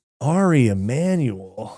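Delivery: condescending tone. Told to say a name with a condescending voice, the speaker does it: condescending. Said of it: "say Ari Emanuel with a condescending voice".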